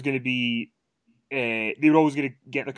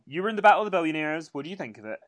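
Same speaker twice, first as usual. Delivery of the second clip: higher, defiant mock voice; mocking Lana; 4 semitones higher, much faster than usual. The speaker imitating Lana raising Trump, higher mock defiance. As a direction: play her as brash and carefree. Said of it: "And she's like".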